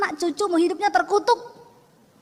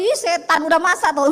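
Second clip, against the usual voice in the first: mock loud call; 5 dB louder than usual. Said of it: "Dia datang ngomong sama saya".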